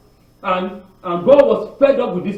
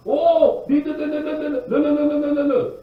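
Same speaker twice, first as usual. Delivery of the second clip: mock panic; 6 semitones higher than usual. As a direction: stammer like frightened people losing their nerve. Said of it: "And the people panic".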